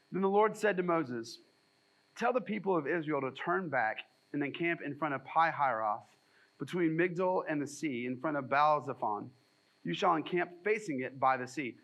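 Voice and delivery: measured, solemn Bible reading; steady, formal reading voice; scripture reading. Acted. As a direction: read the passage out to the congregation. Reads scripture passage aloud.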